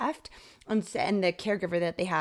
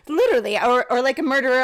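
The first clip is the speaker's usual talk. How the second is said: laughing; 6 semitones higher, 10 dB louder than usual. Real, not acted. Laughing nervously while retelling.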